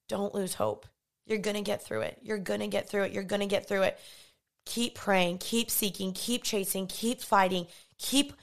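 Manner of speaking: hushed, heartfelt reassurance; tender reassurance. Real, not acted. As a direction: comfort them quietly, like a hand on the shoulder. Comforting viewers in hard seasons.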